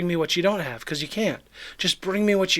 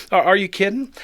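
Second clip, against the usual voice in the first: louder, higher are you kidding; mock incredulous; 4 semitones higher, 5 dB louder than usual. Disciples mocking Jesus' request, hammed-up disbelief. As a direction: play up the disbelief. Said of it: "In other words".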